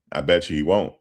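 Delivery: normal talking voice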